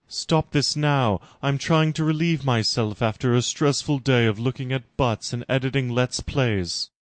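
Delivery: a flustered, affronted queen voice; indignant Laura. Acted. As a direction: protest at the knock, scandalised. Laura interrupted on the toilet.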